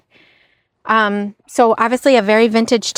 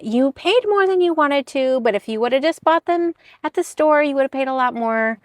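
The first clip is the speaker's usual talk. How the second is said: higher-pitched nice-way coaxing; lightly voiced, higher reasoning tone; gently placating mother; 4 semitones higher than usual. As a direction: imitate mom kindly soothing a complainer. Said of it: "tell me in a nice way".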